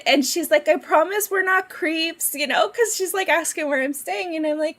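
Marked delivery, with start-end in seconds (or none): 0.7-2.3 higher, imitated Minnesota friendliness; Minnesota accent. Minnesota lady reassuring a passenger, Minnesota accent. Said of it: "straight up Minnesota, like, hospitality".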